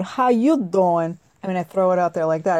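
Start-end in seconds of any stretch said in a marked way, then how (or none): 0.0-1.2 slow, lightly voiced Joey line; Joey impression. Host greeting someone the Joey way, lightly imitated. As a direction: drawl it out like Joey from Friends. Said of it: "I say it like Joey".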